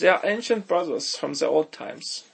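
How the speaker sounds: slow mock-German delivery; German accent. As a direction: intone it slowly in a German accent. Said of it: "do the German accents".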